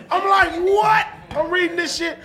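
laughing outrage; laughing disbelief. Real, not acted. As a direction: crack up in disbelief. Laughing shock at daughter's messages.

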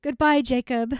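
mock dramatic farewell. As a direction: overplay the tearful farewell for laughs.

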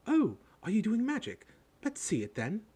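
high, bossy schoolgirl voice; bossy girl. A narrator's reading. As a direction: pounce on it and demand a demonstration. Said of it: "She had a bossy sort of voice".

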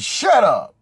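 sudden high-pitched shout; shouted retort. Retold or imitated. Man silencing his cursing date, acted shout. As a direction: cut her off with a shout.

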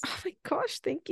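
breathy thrilled whisper. Real, not acted. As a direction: whisper it, delighted. Touched by poem pick.

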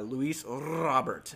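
Robert with a rolled R, slow. Shown as a demonstration. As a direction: roll the R in "Robert", Spanish style. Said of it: "I'm gonna let you roll the R".

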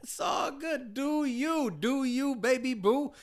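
high, sing-song teasing; mock teasing voice. Co-host mocks the cock salad order in a high teasing voice.

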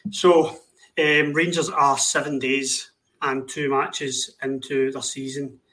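dry mock-cheerful positivity; sarcastic. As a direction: say it sarcastically, fake upbeat. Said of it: "that is sarcasm".

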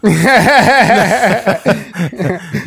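high laughing protest; laughing while denying. Real, not acted. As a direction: burst out laughing, no no no. Laughing denial of doggy style.

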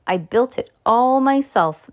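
high, loud, stretched emphasis on all; proud boast. A narrator's reading. Mister Egg showing off his nest, proud boast. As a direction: boast with ringing pride. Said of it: "Mister Egg said proudly".

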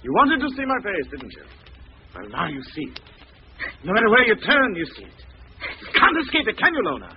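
menacing taunt. Acted. Killer taunting his victim.

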